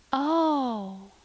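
high, drawn-out amazed "oh"; long-breathed dismay. A narrator's reading. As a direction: let out a high, pitying sigh of wonder. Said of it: "drew a long breath".

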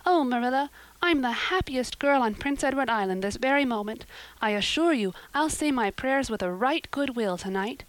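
a hint of a breathless, delighted girl; excited girl Anne. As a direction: gush on like a happy dreamy girl. Narrator voices Anne chattering.

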